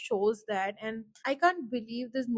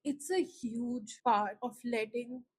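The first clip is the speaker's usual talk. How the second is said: choked up, softer. Real, not acted. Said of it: "I had to take a few breaks".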